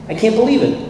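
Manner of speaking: high-pitched incredulous complaint; retold disbelief. Calling his sponsor after being towed, retold disbelief.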